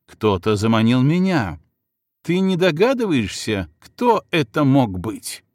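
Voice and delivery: escalating angry rant. Acted. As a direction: voice rising, accusing and urgent. Vytautas rants, accusing, escalating.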